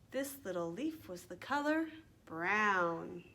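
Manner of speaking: slow, lilting rhyme for little ones; children's rhyme recital. Acted. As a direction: recite slowly with stretched key words.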